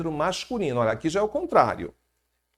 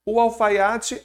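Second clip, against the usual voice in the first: "O alfaiate" louder and higher, with stress on "O"; stressed article; 7 semitones higher, 5 dB louder, much slower than usual. Shown as a demonstration. Teacher introducing the next word, stresses the article. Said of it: "Não, não muda".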